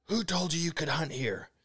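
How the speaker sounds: high-pitched mock outrage, volume held back; imitated woman freaking out. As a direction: put on her high, indignant voice. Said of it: "and she's freaking out".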